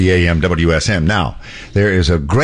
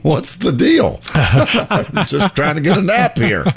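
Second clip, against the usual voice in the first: slow, higher put-on bison voice; bison's thoughts; 8 semitones higher, slower than usual. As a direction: voice the puzzled bison on the rug. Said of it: "So just like".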